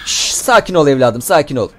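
put-on calm a child down, playfully; mock soothing. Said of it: "Seni ben sakinleştireyim evladım".

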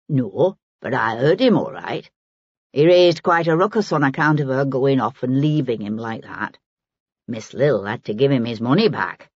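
put-on an earthy old woman in dialect; lightly played working woman, musing; lightly voiced Maggie. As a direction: take your time sizing them up, in dialect. Narrator voices Maggie recounting the row.

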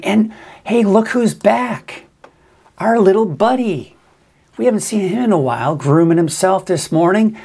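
high, sing-song pet voice; cooing at a bird. Real, not acted. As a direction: coo like greeting a pet. Cooing at seagull on camera.

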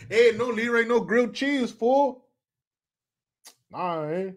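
put-on Chicano homeboy accent. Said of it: "I can do that accent so well".

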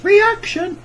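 reaction jumps up into a high squeak; voice cracking high. Acted. Sings reaction videos, voice cracks.

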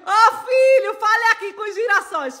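high, sweet coaxing call; coaxing son. Real, not acted. Coaxing son to greet followers. (chamando o filho com voz aguda e carinhosa)

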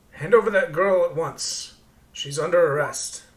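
lightly acted official order; stern demand. Armed man orders strangers to surrender the girl, stern demand.

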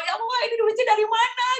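mock whimpering plea. Retelling her 3 a.m. prayer to Allah, a mock whimpering plea. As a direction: retell a tearful late-night plea, lightly. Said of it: "ngerengek sama Allah".

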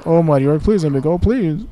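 high, loud hammed-up begging; mock pleading. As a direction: beg the orc for mercy, theatrically. Acts out begging an orc for mercy.

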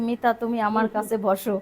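loud fatherly call; calling out like a dad; imitating father. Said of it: "মানে বাপের মতো".

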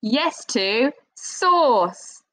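"Yes to sandwich" slow, "yes" rising high; slow emphatic yes. Shown as a demonstration. Teacher recapping answers, slow and emphatic. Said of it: "quick recap".

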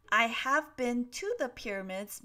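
"to" stressed clearly; "have been to" set out distinctly; model sentence. Shown as a demonstration. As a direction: read the example carefully, weight on "to".

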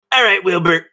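a hint of a scheming mentor; Zahn's voice. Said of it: "this is Zahn's voice".

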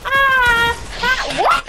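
surprised. Real, not acted. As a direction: caught off guard mid-game. Gets hit in the game.

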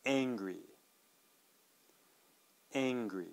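"angry" flat A, no H; model word. Shown as a demonstration. Teacher gives "angry" for learners to repeat. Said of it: "please listen and repeat".

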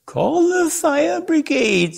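high, slow, wailing matron's voice; panicked lady. Acted. Mrs Prothero beating the gong, calling for help in a high wail. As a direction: sing out the alarm like a flustered lady. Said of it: "said Missus Prothero".

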